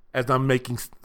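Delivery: usual speaking voice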